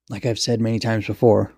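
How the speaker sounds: even, unexcited statement; plain, businesslike delivery; matter-of-fact. Acted. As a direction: explain it as old news. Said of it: "said matter-of-factly".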